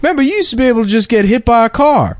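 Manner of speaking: high, showy comic preacher voice; Steve Harvey impression. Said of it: "He's like".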